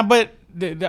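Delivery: ordinary talk, nothing marked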